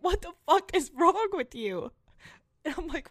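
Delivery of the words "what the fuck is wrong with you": higher, louder exasperated retort; mock angry confrontation. Friend confronting her in the lunchroom, retold angrily. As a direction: fire it back like he's fed up. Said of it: "He's like".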